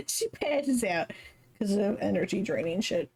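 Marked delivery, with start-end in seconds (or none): 0.0-1.1 slow, giggling reread; laughing. Real, not acted. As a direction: laugh while saying it.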